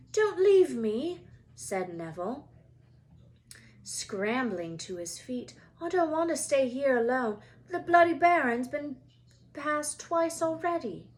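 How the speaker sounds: high, loud, frightened begging; pleading Neville. Acted. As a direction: beg them not to go. Neville begs not to be left.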